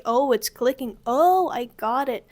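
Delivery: loud, slow, delighted oh I got it; eager realization. Shown as a demonstration. Teacher contrasts an eager eureka tone. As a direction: burst out as it clicks. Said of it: "It's not necessarily".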